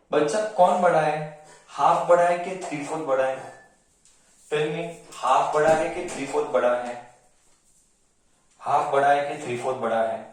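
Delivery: quick, insistent quizzing, fast; rapid-fire quiz. Acted. Teacher to class, quizzing them very fast.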